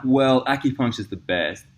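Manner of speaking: drawn out like a self-satisfied boast; smug. Retold or imitated. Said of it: "as soon as I'm like".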